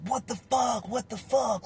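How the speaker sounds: high-pitched, squeezed mock outrage without much volume; imitated complaining. Cellmate complaining about the smell, high-pitched exasperation. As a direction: imitate a disgusted cellmate griping. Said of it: "he's complaining about the smell again".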